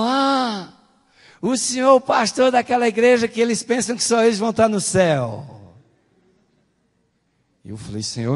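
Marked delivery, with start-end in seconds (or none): 0.0-5.7 high, loud mock outrage; indignant exclamation. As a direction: imitate a woman calling out an accusation. Imitates woman's indignant reaction. (imitando mulher indignada, voz alta e aguda)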